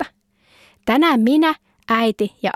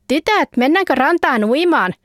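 mother asking; 6 semitones higher than usual. Acted. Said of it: "Sanna kysyi".

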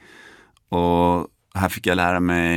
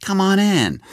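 much higher, grinning, creepy-sweet invite; sudden smiling welcome; 12 semitones higher, 3 dB louder than usual. Retold or imitated. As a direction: switch to a psycho's smile mid-breath. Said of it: "började le och så här". (mycket högt, leende och obehagligt vänligt)

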